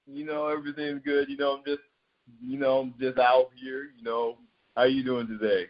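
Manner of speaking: put-on pushing his voice down to sound older and cooler; a mildly deepened, laid-back grown-up voice; teen lowering his voice to sound grown-up when greeted on a call, mild put-on deep tone; put-on low voice. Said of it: "Why you trying to lower your voice while you talking to me?".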